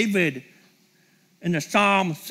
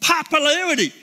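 mock yearning; 3 semitones higher than usual. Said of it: "it will be like".

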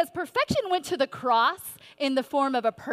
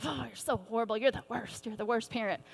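mock self-beating; 6 dB quieter than usual. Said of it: "beating ourselves up".

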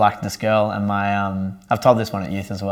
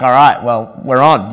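louder, higher, keen and ready; eager go-ahead; 3 semitones higher, 9 dB louder than usual. Retold or imitated. Agreeing to pray for his crying friend, eager and louder. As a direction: jump in with gusto.

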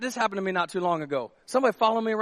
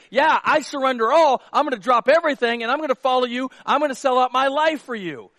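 raised, emphatic pledge; fervent declaration; 4 semitones higher, 5 dB louder than usual. Acted. Peter pledging to follow Jesus, fervent declaration. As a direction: declare total devotion, higher and louder. Voicing Peter's total commitment.

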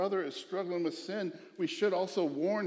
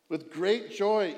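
"With great joy" slowed and lifted, louder; stress on great joy; 4 semitones higher, 6 dB louder, slower than usual. Real, not acted. Preacher relishing his favourite phrase, slow emphatic stress. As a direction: savour "With great joy" word by word. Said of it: "I just love this last part".

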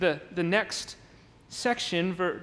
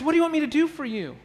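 higher, fast, lively "What do you want me to do for you?"; eager question; 5 semitones higher, faster than usual. Shown as a demonstration. Jesus inviting the blind men to ask, quick and eager. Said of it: "So he says".

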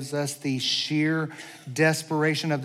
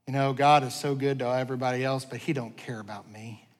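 sinking lower and softer to the end; dejected resignation; 4 semitones lower, 4 dB quieter than usual. Acted. Voicing people tempted to give up, quietly dejected. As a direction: let it fade as if giving up.

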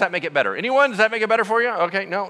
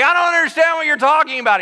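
much higher, louder baffled protest; exasperated protest; 10 semitones higher, 6 dB louder, faster than usual. Retold or imitated. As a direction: push back in confusion. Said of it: "They're like".

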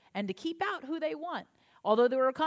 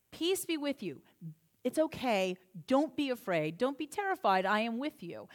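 reassuring; 3 semitones lower than usual. Retold or imitated. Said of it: "he gives it to them twice".

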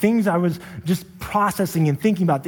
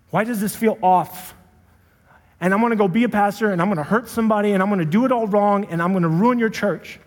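raised, exasperated complaint; venting at God in a higher voice; frustrated; 5 semitones higher than usual. Retold or imitated. Pastor voices his frustrated thoughts to God, exasperated. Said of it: "I was so frustrated".

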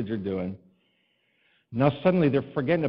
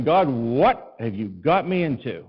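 slow, stretched-out appeal; drawn-out plea; 6 dB louder, slower than usual. Retold or imitated. Pastor slowly pleading with God before the kids. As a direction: plead with God, a little lost.

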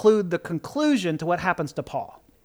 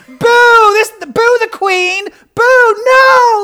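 loud, higher booing protest; mock booing; 12 semitones higher, 9 dB louder, much slower than usual. Preacher booing the book's ending, loud mock protest. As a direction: boo it like a let-down crowd.

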